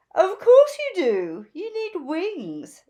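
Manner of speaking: high, loud, gushing fashion bird; gushing Zelda. A narrator's reading. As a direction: gush over the new look like a flamboyant stylist. Zelda voiced.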